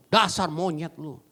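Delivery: mock angry insult. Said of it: "Suami lagi marahin istri".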